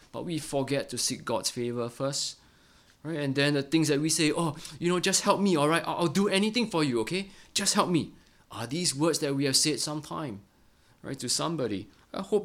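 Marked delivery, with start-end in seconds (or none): 4.3-8.1 higher, quicker begging plea; pleading. Retold or imitated. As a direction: beg like someone desperate for a favour. Acting out a desperate plea.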